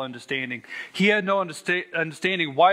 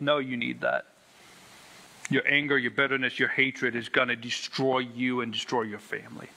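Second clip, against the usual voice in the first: God's answer; 3 semitones lower, 4 dB quieter than usual. Retold or imitated. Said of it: "And God goes".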